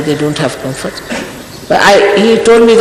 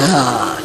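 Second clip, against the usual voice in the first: low, softer mock-weary "ah"; put-on sigh of someone worn out; exhausted sigh; 7 semitones lower, 5 dB quieter than usual. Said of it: "here we are already exhausted".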